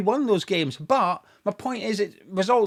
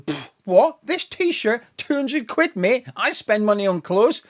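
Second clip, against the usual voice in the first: mock boast; 2 semitones higher, 4 dB louder than usual. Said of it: "Me going".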